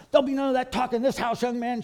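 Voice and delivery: high, loud, fast scolding mother; angry mother. Retold or imitated. Mother scolding her fourteen-year-old son, furious and fast. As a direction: snap at the cheeky son like a furious mom.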